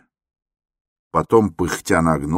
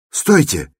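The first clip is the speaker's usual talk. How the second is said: shouting; 8 semitones higher, 5 dB louder than usual. Acted. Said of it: "закричал опять молодой человек".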